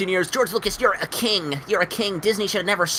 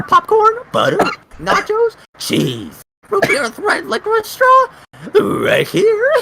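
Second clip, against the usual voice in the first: excited shout; 12 semitones higher, 5 dB louder than usual. Retold or imitated. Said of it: "you're like".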